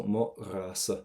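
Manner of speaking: gargle the start of "ra" lightly, no K sound; back-of-throat G. Shown as a demonstration. Teacher reassures Leisha with a model, throaty GH on "ra". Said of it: "get that G sound in the back of your throat".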